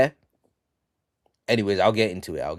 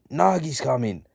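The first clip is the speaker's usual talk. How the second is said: mild acted shout; 4 semitones higher than usual. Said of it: "one guy shouts".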